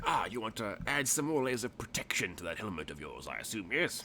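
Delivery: lightly voiced obliging tradesman, swooping pitch; obliging shopkeeper. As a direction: lightly play a shopkeeper checking an order. Game master voices the shopkeeper.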